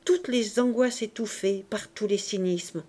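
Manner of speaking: usual speaking voice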